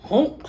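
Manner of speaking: loud honk; goose honk. A narrator's reading. Reading the goose's line, a loud honk. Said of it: "said the goose".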